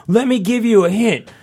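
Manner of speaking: lightly voiced coy stranger; a hint of a smug drunk; imitating the drunk guy. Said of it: "He's like".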